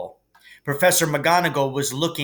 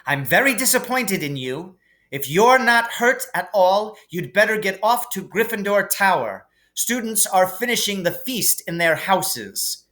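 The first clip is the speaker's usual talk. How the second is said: high, clipped judgement; stern teacher; 7 semitones higher than usual. A narrator's reading. McGonagall takes points from Hermione, stern. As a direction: pronounce the penalty sternly.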